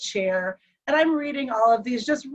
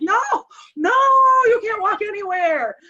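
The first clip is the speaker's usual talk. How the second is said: high retold shout; alarmed refusal; 11 semitones higher, 6 dB louder than usual. Wife holding husband down in hospital, alarmed refusal. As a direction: cry out to stop him, pitched up.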